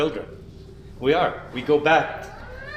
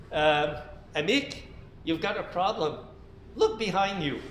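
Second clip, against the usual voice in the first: much softer, tentative; hesitant gentle warning; 8 dB quieter than usual. Acted. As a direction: break the bad news carefully. Nervous friend breaks bad news.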